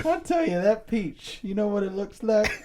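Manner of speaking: put-on high, loud old South orator accent; theatrical high-pitched Southern accent; antebellum Southern accent. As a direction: hold forth in a hammed-up Southern accent. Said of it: "that's like an antebellum South accent".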